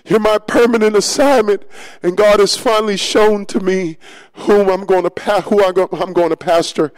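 excited calls to the men in the field; calling out, then settling. Retold or imitated. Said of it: "I screamed again".

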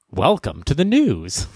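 slow polished anchor voice; smooth anchor. Retold or imitated. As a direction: snap into anchor mode slowly. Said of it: "the anchor is like".

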